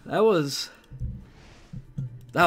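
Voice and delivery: winded after shouting; out of breath. Real, not acted. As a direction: catch your breath between words. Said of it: "I'm out of breath after that one".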